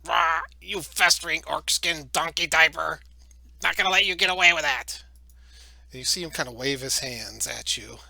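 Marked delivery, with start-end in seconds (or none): 0.0-5.0 loud, raised insult hurled at an enemy; angry in-character yell. Acted. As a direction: growl out "Rah", then yell the threat. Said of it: "he yells at Kevon".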